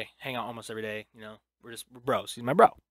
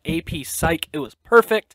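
bursting with pride, much higher and louder; excited; 5 semitones higher, 8 dB louder than usual. Real, not acted. Bragging to listeners about his intro, excited. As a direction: sell it like the best idea ever.

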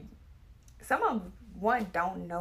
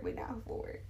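whisper; 5 dB quieter than usual. Real, not acted. Whispered repeat.

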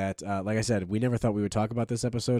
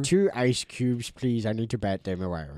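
cat voice. Pretend. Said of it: "Those are our cat voices".

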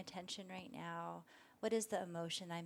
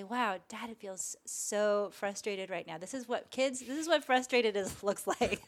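a louder dad owning his frustration, half laughing; dad naming his frustration; 7 dB louder than usual. Pretend. A dad explaining frustration to his kids, louder. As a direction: show the kids, openly, what frustration sounds like. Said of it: "what if you were able to say".

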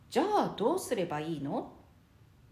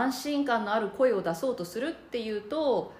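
usual speaking voice

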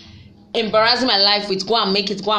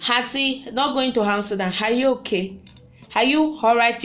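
incredulous; 3 semitones higher than usual. Real, not acted. Mocking auntie's claim, calling out.

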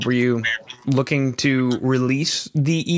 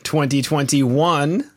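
slow punchline; much slower than usual. Acted. Joke punchline drawn out slow.

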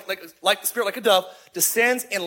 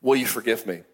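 sincere apology; 6 semitones lower than usual. Shown as a demonstration. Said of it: "learn those eight words".

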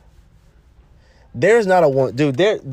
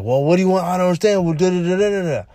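getting all mad; 8 semitones higher, faster than usual. Retold or imitated. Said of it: "he gets all mad".

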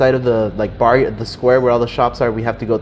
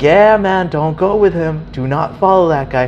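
higher, emphatic warning; urgent caution, louder at the start; retold yelling; 5 semitones higher, 3 dB louder than usual. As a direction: imitate a shopkeeper insisting, voice raised. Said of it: "they start yelling at me".

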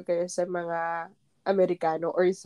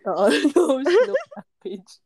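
slow corrected quote; 5 semitones higher, 6 dB louder, slower than usual. Shown as a demonstration. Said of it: "love knows long".

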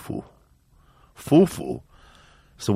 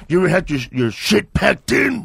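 slow, higher menacing quote; gangster line; 6 semitones higher than usual. Retold or imitated. Quoting the Training Day gangster, slow menace. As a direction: drawl it like a movie gangster. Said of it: "he goes".

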